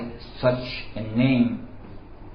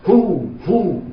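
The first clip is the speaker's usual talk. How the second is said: put-on drunk man's joyful hoot; 8 semitones higher than usual. Drunk answers instead of ah.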